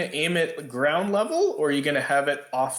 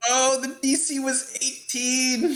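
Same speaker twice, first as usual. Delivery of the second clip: high-pitched exclamation; exclaimed realization; 12 semitones higher than usual. Real, not acted. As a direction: pitch jumps way up in surprise. Reacting to the high save target.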